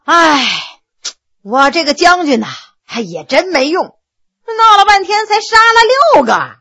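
a mock-rueful boast; mock sigh. Prisoner mock-lamenting his small kill count to the judge, sighing then rising. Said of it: "不由叹了口气说".

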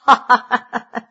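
big open-mouthed ha-ha-ha; hearty laugh. Acted.

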